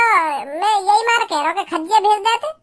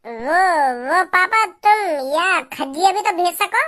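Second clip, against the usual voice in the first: whiny plea; 3 semitones lower, slower than usual. Acted. Son whining to avoid errand.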